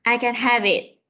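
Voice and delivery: "have it" joined, the silent E dropped; linked V sound. Shown as a demonstration. Teacher demonstrating the rule, "have it" linked on V. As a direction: carry the V of "have" straight into "it". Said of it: "bỏ một cái nguyên âm trước và nối này".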